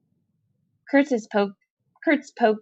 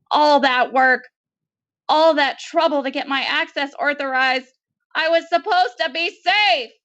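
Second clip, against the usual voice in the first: higher and higher, growing despair; rising lament; 7 semitones higher than usual. Acted. Kurtz bemoans his fate to Maudie, climbing higher. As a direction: let the self-pity climb.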